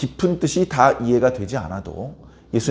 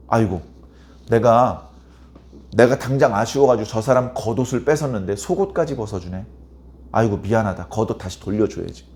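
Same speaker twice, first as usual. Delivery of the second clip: lower, mildly regretful self-talk; acted remorse; 5 semitones lower than usual. Man who took another's coat decides to return it, acted remorse. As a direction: play a wrongdoer having second thoughts. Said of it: "자기가 한 행동을 뉘우친다는 겁니다".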